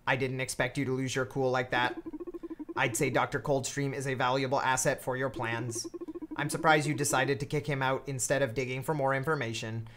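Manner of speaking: dumb flat robot voice. Acted. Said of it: "I also use a dumb robot voice for her".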